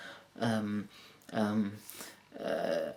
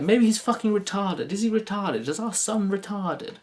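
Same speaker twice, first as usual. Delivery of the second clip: exasperated mother; 4 semitones higher than usual. Retold or imitated. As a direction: rant like despairing parents. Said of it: "his mother voiced".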